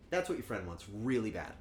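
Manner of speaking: ordinary delivery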